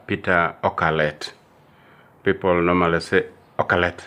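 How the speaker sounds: normal talking voice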